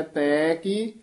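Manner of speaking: ਤੈਂ ਕੀ with a lengthened ਤੈਂ; drawn-out vowel. Shown as a demonstration. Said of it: "ਇਹ ਲਮਕਾ ਕੇ ਸੰਬੰਧਕ ਬੋਲਣਾ". (ਤੈਂ ਕੀ ਲਮਕਾ ਕੇ ਬੋਲੋ)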